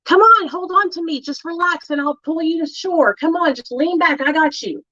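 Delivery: acted lifeguard soothing a friend; reassuring rescuer. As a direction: talk them calm while you hold them up. Rescuer calming drowning friend.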